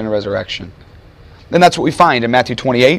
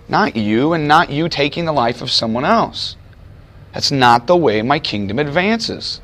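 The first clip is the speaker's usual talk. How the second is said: gentle correction. Retold or imitated. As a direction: let him down gently. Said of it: "Jesus looks at him and says".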